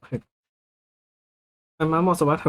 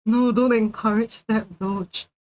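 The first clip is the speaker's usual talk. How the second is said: excited scolding; 6 semitones higher than usual. Real, not acted. Scolding chat, laughing.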